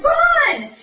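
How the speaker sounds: very high, loud mock shriek; urgent shout. Atrium ordering a baffled Covenant to flee, urgent shouting. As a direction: yell it as a frantic command.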